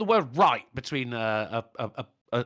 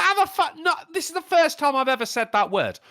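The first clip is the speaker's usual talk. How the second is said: indignant; 5 semitones higher than usual. Retold or imitated. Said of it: "I'm like".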